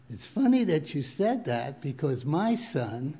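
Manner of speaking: breaking into a laugh. Retold or imitated. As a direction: hold back laughter, then lose it. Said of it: "God answered them and said".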